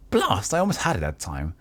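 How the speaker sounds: frustrated spellcaster. Acted. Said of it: "interrupt spellcaster".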